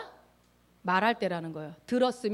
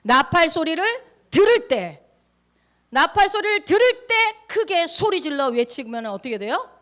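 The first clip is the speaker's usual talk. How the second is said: loud, raised preaching voice; full-force preaching; 5 semitones higher, 6 dB louder than usual. Real, not acted. Preacher retelling the trumpet and falling wall, full-force preaching. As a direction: drive each phrase home to the congregation.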